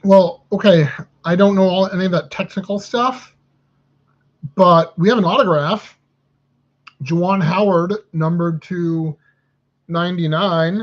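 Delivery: perking up at a good pull; excited. Real, not acted. Autograph pulled during card break.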